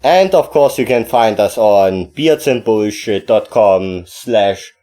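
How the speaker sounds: slow spelled-out announcer read. Real, not acted. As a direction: spell it out like a radio promo. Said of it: "I always gonna keep doing that in a certain voice".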